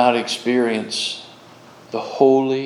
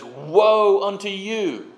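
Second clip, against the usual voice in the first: drawn-out, raised pronouncement of judgment; oracle of doom; 5 semitones higher, slower than usual. Acted. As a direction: stretch out WOE like a prophet's curse. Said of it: "the uttering of the oracle".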